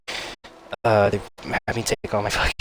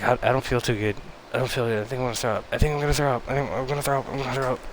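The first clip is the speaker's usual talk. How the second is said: higher, repetitive queasy warning; nauseous panic; 5 semitones higher, much faster than usual. Retold or imitated. Patient warns nurses he will throw up, acted nauseous panic. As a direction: build urgency as if about to be sick.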